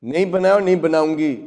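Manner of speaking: fast, snappy refusal; mildly angry wife answering back; defiant retort. Acted. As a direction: refuse point-blank, in a rush. Voices the wife's angry retort.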